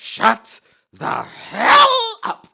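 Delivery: furious shrill bellow, very loud, very slow. Narrating a man mocked by children, yelling angrily. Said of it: "as he yells".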